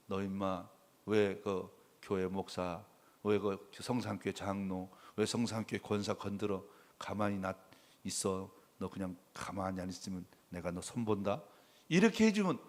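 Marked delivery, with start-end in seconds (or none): 0.0-11.4 low, soft, menacing warning voice; God scolding a bully. Pretend. Pastor voicing God warning a tormentor, low menacing growl. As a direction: lower and quieter, like a quiet threat. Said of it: "하나님이 나타나서".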